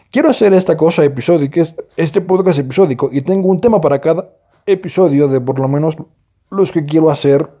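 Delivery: talking through sudden hiccups; hiccuping between words. Real, not acted. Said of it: "me dio un ataque de hipo repentinamente". (con hipo)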